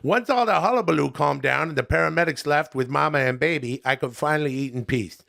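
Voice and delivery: lightly voiced chummy comic reviewer; folksy buddy-to-buddy review, a little put on; Adam Sandler.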